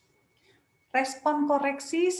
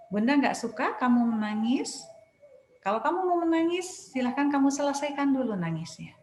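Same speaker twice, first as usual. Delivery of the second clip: firm, not angry; 2 semitones higher than usual. Shown as a demonstration. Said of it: "Tapi kalau tegas, kita cukup sampaikan".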